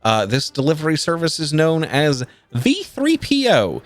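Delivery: lightly voiced captain reading rote; rote and dry. Captain reads the parchment to the crew, rote and dry. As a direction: drone through it like a dull official notice. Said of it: "reading from it in a very rote and dry manner".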